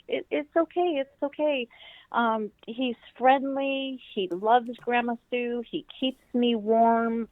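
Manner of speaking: put-on calm a scared little girl gently; reassuring. Grandma calming a startled child.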